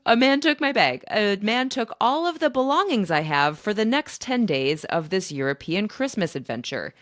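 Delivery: replaying the moment of alarm, loud and high; panicked outburst. Woman realizing her luggage was stolen, panicked outburst.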